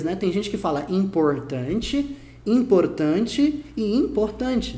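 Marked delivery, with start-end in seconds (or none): 0.9-2.2 "importante" slowly in one regional Brazilian accent; regional Portuguese. Shown as a demonstration. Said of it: "aconteceria no português". 2.4-4.8 "importante" slowly in two Brazilian regional accents; regional Portuguese variants. Shown as a demonstration. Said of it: "dependendo de onde você é".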